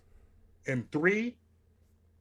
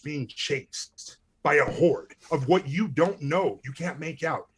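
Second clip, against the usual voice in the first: dramatic scene-setting read; storyteller voice setting the scene; game master narration; 4 dB louder than usual. Acted. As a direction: paint the chase for the players.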